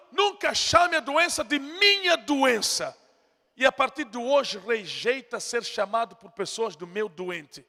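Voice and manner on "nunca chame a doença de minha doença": slow, emphatic shout; shouted command. Real, not acted. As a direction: drive it home to the church. Preacher commanding congregation.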